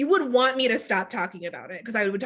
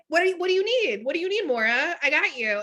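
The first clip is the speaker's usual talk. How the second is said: eager to please; 6 semitones higher than usual. Retold or imitated.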